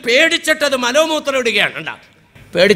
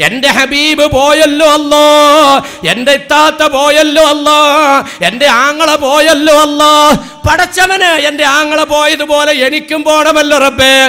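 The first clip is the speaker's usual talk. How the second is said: louder, wailing lament for the dead; mock wailing mourner; 5 dB louder than usual. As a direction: imitate a mourner crying out.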